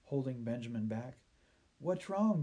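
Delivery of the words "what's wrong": put-on high, urgent boy's demand; demanding question. A narrator's reading. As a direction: demand to know, pitched up high. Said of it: "demanded Benjamin".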